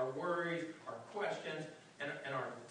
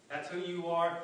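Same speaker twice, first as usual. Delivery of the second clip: louder, pressing the accusation home; insistent repeat; 3 dB louder than usual. Retold or imitated. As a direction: say it again like a voice that won't let go. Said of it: "there's that voice that says".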